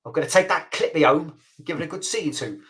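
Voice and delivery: put-on light Cockney accent, cheeky; a half-hearted London Cockney put-on. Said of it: "having a go at my Cockney accent".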